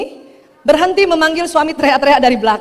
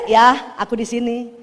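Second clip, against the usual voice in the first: gentle nudge; 3 semitones lower, 3 dB quieter, slower than usual. Shown as a demonstration. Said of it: "Ibu colek aja".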